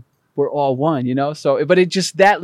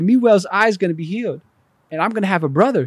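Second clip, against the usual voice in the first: put-on excited child voice; 5 semitones higher than usual. Retelling himself as an excited child.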